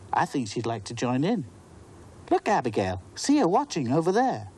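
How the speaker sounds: put-on high, eager little girl; a small child chattering excitedly. Natalie explaining Beady Bo to Abigail, high child voice.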